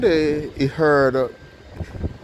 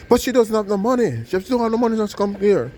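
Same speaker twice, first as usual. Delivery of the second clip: put-on higher, worried old woman's voice; pleading poor lady; 9 semitones higher than usual. Poor lady protesting to the doctor, higher and worried. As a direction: plead that she has nothing to pay with.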